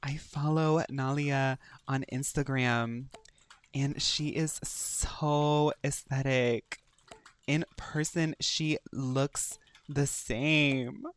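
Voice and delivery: slow, drawn-out starstruck gush; mock fangirl gushing. Player gushing over Nalia as an Instagram star, mock fangirl. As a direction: stretch each phrase out in pretend awe. Gushing about a game character as celebrity.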